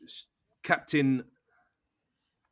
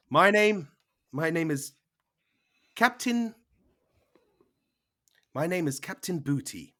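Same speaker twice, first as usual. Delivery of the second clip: pirate mum; 4 semitones higher than usual. Acted. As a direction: announce herself with a hammy pirate's swagger. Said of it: "your mum says".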